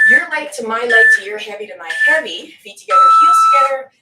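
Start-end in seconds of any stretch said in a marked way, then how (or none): 2.6-3.9 fast, loud coaching call. Real, not acted. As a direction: bark the cue quickly. Coach calls out position.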